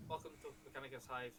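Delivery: raspy metallic vox voice; metallic voice filter. Acted. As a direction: speak through a raspy vox unit. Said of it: "a very raspy, metallic voice".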